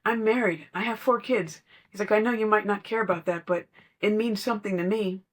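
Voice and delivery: imitating a man proving he's faithful; lightly voiced insistent husband; adamant customer.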